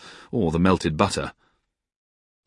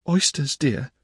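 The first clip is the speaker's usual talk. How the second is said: put-on higher, shy young wife; timid Dora; 8 semitones higher, slower than usual. A narrator's reading. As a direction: offer it shyly, hoping he's pleased. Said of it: "said Dora timidly".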